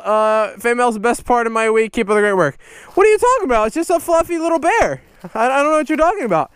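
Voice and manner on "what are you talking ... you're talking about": high, feigned innocent protest; hammed-up innocent denial; mock innocence. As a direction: pretend you see nothing rude. Playing innocent about rude toy.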